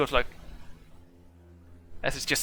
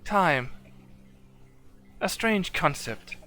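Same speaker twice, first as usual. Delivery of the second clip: pondering robot; 6 semitones higher, 3 dB quieter than usual. Acted. Warforged musing about time to a party member, high robotic voice. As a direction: puzzle over a human idea like a robot.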